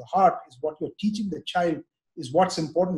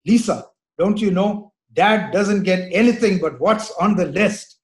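lightly mimicking son; 2 semitones higher, 5 dB louder, slower than usual. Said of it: "he would say".

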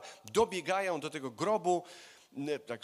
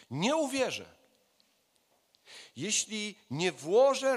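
slow, emphatic, raised-pitch defiance; worked-up refusal, higher and measured; angry, agitated; 4 semitones higher, 3 dB louder, slower than usual. Acted. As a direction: dig in angrily, drawing out each word. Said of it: "mógł być mocno rozgniewany, mógł być wzburzony".

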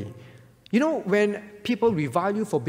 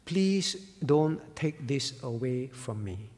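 hushed, pleading martyr, almost a whisper; pleading softly; 4 semitones lower, 5 dB quieter than usual. Acted. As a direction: beg quietly not to lose the chance. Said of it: "He pleaded".

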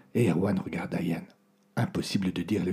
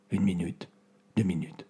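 normal talking voice

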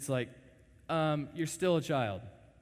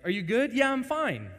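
high mock exchange; 10 semitones higher, 8 dB louder than usual. Wife dialogue.

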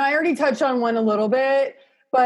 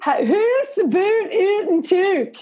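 "house" "about" "out" "toque" said the Canadian way, raised and high; Canadian vowels in "house" and "about", pitched up; Canadian accent; 10 semitones higher, slower than usual. Shown as a demonstration. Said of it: "with your thickest Canadian accent".

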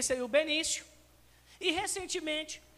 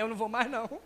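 put-on worried child; 6 semitones lower, much faster than usual. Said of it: "Até o menino fica preocupado".

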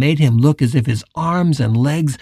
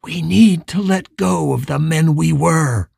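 a touch of tenderness; soft and gentle. Acted. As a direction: gently coax him. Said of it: "his voice as soft and gentle as he could pitch it".

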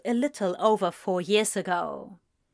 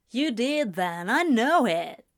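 gently certain; 2 semitones higher than usual. A narrator's reading. Rejected friend insists he was loved, gently certain. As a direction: insist without pushing. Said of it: "with a gentle sort of certainty".

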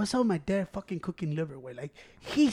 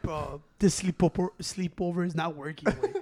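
tired; 3 semitones lower, 7 dB quieter than usual. Retold or imitated. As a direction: mutter it, worn out. Tired complaint.

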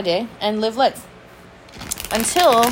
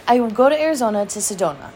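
laughing; faster than usual. Real, not acted. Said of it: "Why am I talking like this?".

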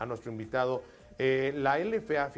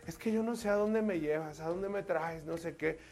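put-on higher, a fretful young woman; nervous girl voice; 4 semitones higher than usual. Girl asking her boyfriend where they are going, nervous. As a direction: sound unsure where he's taking you.

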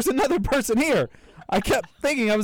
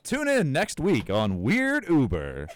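announcer; 8 semitones lower, slower than usual. Acted. S2 plays a TV show host.

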